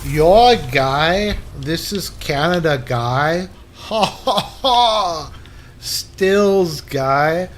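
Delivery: lightly put-on, drawn-out Canadian guy voice; mock Canadian guy. Bumming a spliff off his guy, mock Canadian. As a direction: stretch it slowly like a caricature Canadian.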